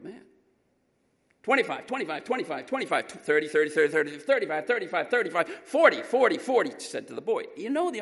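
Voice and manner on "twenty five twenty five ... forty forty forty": rapid bid chant, growing louder; auction calling. Retold or imitated. Auctioneer pushing the bidding up on the boy. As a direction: climb the bids in a rattling chant.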